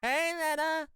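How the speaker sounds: bright high call; excited. Real, not acted. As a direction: call out happily. Calling out greeting.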